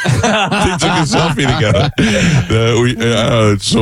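words broken up with a laugh; real amused laughter; laughing through it. Real, not acted. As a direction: tell it while laughing. Laughing while telling punchline.

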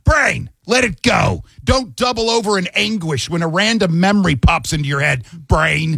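high-pitched sarcastic telling-off; hammed-up exasperation, pitched well up; mock exasperated scolding. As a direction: scold your own brain with falling, pleading cries. Acts out scolding his own brain.

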